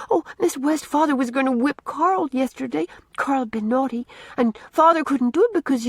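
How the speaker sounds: put-on a small girl promising to be good; little girl pleading. A narrator's reading. Una tells her story.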